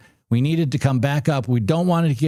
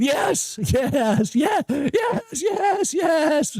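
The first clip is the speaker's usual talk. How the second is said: triumphant yes shouts; 13 semitones higher, much slower than usual. Real, not acted. Trader celebrating the trade with his viewers, shouting. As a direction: celebrate the win at full voice. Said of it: "I'm so excited".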